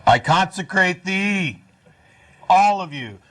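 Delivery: slow, solemn priest intoning; hammed-up blessing, drawn out; mock priestly blessing.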